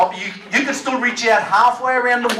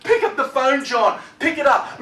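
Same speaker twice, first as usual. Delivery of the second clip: pleading ex-wife. Retold or imitated. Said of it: "she's bawling on the phone".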